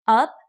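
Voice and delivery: Up said with a rising pitch. Shown as a demonstration. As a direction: push Up upward. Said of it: "like up".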